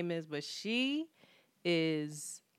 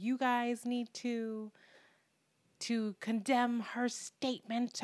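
mock indignant Democrats; 6 semitones higher, 6 dB quieter, slower than usual. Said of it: "Democrats have been going ham".

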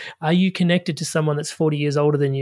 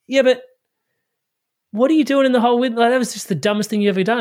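mock exasperated; 7 semitones higher, 4 dB louder, faster than usual. Guy berates mate in joke.

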